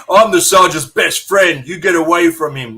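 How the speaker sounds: put-on possessive outburst; mock protective best friend. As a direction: pretend to fend off a rival, loudly. Mock confrontation he admits never happened.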